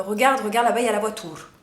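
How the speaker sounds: put-on light Italian-accented French from childhood; "voiture" with an Italian oo; imitated Italian accent. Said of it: "je parlais avec l'accent italien".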